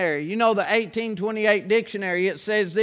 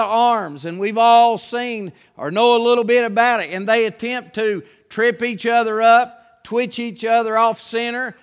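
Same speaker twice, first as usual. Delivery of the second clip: preaching. Acted. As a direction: preach it out with rising force. Preaching builds up.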